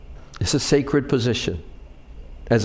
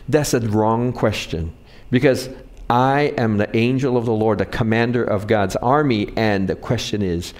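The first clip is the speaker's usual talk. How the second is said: lower, lightly voiced commanding angel; a hint of the angel setting Joshua straight, lower; angel of the Lord; 5 semitones lower than usual. Angel answering Joshua's challenge, lower and commanding. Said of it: "And he says".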